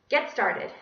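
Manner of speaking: curt classroom order; stern teacher. Acted. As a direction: snap it at the class.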